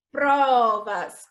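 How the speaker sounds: "Provas" stretched, weight on PRO; PRO-vas, drawn out for the class; stressed syllable demo. Shown as a demonstration. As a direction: say "Provas" deliberately, first syllable strongest. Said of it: "pró sai com mais intensidade".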